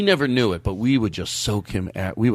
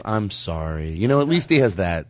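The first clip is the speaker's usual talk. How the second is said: mock condolence; 4 semitones lower than usual. Acted listener pitying a parent.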